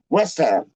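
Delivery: "West Ham" rushed into one word; imitated mispronunciation. Fan imitating two people he saw, rushed pronunciation. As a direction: mimic someone hurrying "West Ham" together. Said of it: "I've seen two people, they're like".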